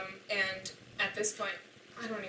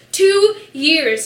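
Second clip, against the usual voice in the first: high, loud furious shout; 10 semitones higher, 20 dB louder than usual. Retold or imitated. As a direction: yell it right at him. Angry quote to boyfriend in retold fight.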